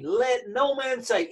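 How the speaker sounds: slow, emphatic declaration. Retold or imitated. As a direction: stretch out each word for emphasis.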